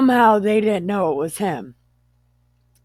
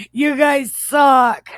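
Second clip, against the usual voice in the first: slow, high, loud jeer; shouted insult; 8 semitones higher, 8 dB louder than usual. Acted. Joe jeering at his brothers, shouted insult. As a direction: hurl it as a hammed-up shout.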